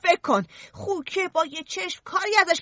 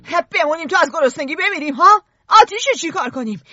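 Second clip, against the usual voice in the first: raised, exasperated outburst; shouting; 4 dB louder than usual. Acted. Ralph yelling at Piggy's idea to stay put. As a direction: shout them down in frustration. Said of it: "داد زد".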